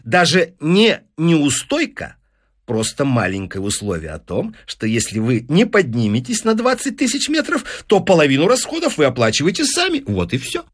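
high, breezy explanation, quickening toward the end; glib patter. Acted. Businessman explaining the penalty clause, glib. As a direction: slip in the catch as a trifle. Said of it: "затараторил Файнс".

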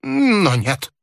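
put-on high, drawn-out old man's voice; fretful high protest, lost in his own fear; slow, high-pitched old man's wail; agitated old man. A narrator's reading. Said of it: "продолжал старик".

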